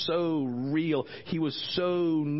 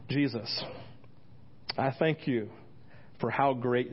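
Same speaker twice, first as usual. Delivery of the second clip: praying. Shown as a demonstration. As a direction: pray it with space between phrases. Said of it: "this is what I pray".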